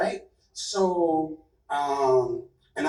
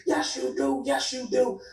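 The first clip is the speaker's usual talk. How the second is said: higher, mock tearful "yes, you do"; imitating tearful insistence; 7 semitones higher than usual. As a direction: echo his crying plea without real tears. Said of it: "So he crying".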